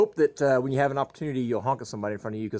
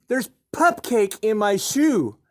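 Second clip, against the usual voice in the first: put-on high, slow little-kid repeat; slow toddler voice; 11 semitones higher, 7 dB louder, much slower than usual. Toddler repeating it slowly to his puzzled dad. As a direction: drag it out like a small child insisting.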